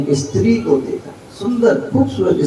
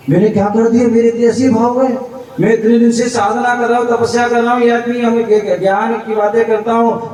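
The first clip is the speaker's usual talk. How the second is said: higher, fast, dismayed inner voice; remorseful self-reproach; 6 semitones higher than usual. Acted. Surdas rebukes himself for his lust, in quick higher dismay. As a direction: scold yourself in quick dismay. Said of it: "उनके ज्ञान".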